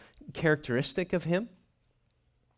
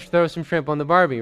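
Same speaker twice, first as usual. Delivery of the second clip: louder, half-laughing Aussie catchphrase, tossed off as a joke; hammed-up Aussie barbecue line, lightly voiced; mock Australian accent, loud and jokey; 2 semitones higher, 8 dB louder than usual. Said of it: "so he wouldn't have said".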